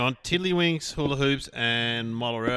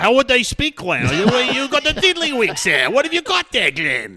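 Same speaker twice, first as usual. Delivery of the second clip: put-on high, loud Jewish-accent caricature; loud mock Jewish accent; attempted Jewish accent; 10 semitones higher, 6 dB louder than usual. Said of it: "I can't do the, with a Jewish accent".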